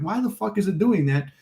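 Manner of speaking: mock-frustrated complaint; retold exasperation. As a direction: replay your annoyance without raising the volume. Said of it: "I'm pissed off".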